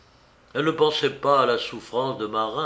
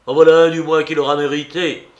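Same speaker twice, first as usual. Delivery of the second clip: furious threat; 4 semitones higher, 10 dB louder, faster than usual. A narrator's reading. Marin's furious threat continues.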